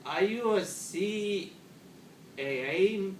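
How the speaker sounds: slow, unhurried mock-calm question. Typical Canadian answering a panicked stranger, very calm. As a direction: drag it out, unbothered. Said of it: "he's very quiet and very, like, calm".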